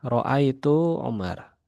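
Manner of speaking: Ro'aitu Umar read slowly and clearly; slow Arabic reading. Shown as a demonstration. Teacher reading Ro'aitu Umar slowly to students. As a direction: draw out Ro'aitu Umar for the class. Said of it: "Kalau Umar ya".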